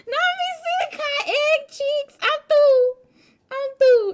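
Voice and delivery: high, loud, laughing retelling; crying laughing. Real, not acted. Streamer retelling friend's Gudetama joke, crying with laughter. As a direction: push words out through tears of laughter.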